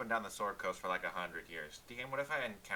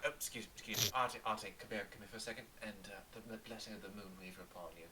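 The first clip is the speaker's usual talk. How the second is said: hushed blessing; 6 dB quieter, faster than usual. Acted. Cleric whispering a blessing.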